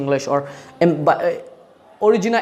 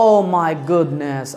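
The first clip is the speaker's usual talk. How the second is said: mock amazement; much slower than usual. Shown as a demonstration. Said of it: "যে কোনো অবাক ক্ষেত্রে আপনি বলেন".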